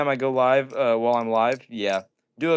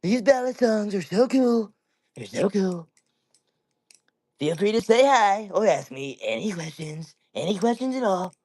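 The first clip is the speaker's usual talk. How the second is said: higher-pitched, drawn-out politician impression; slow, raised presidential parody; Donald Trump; 6 semitones higher than usual. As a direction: stretch the words out like a rally boast. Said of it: "Do a Trump, I got you".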